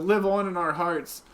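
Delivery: hammed-up tribute, stress on "live"; a mock-grand farewell, "live" leaned on; mock solemn eulogy.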